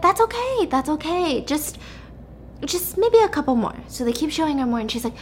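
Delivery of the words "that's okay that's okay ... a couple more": reassuring. Acted. Researchers soothe the agitated subject.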